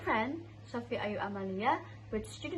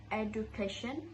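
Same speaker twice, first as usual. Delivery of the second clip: Indonesian-style "education" with "doo"; Indonesian pronunciation. Shown as a demonstration. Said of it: "in Indonesian, we usually say it like".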